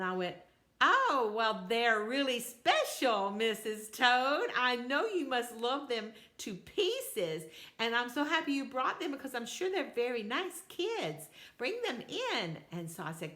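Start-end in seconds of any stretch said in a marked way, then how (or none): 0.8-12.6 slow, careful, overly sweet praise; grandma covering her dislike of toads with slow courtesy; forced politeness. Acted. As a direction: hide your discomfort behind slow niceness. Polite over toads she dislikes.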